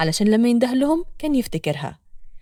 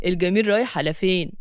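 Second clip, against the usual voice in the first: lower, leering street flirt; flirty street catcall; 6 semitones lower than usual. Acted. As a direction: chat her up crudely. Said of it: "بيغازل فيها بطريقة بلدي". (معاكسة بلدي بصوت واطي)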